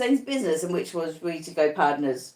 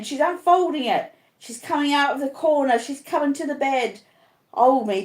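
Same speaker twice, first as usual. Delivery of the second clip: high, frantic screams of terror; terrified screaming; 5 semitones higher than usual. Acted. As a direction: scream in deathly panic. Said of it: "screams out".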